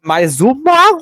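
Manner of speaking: high, loud, slow cartoon duck; Daffy Duck voice. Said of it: "tipo, patolino".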